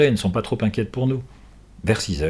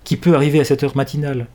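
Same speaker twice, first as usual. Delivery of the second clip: astonished; 5 semitones higher, 3 dB louder than usual. Acted. Wife sees horse arrive.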